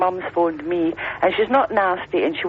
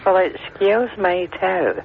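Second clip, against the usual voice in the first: slow, drawn-out echo of his affront; mock offended echo; slower than usual. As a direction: imitate his mock affront, stretching the words. Caller echoes host's mock affront.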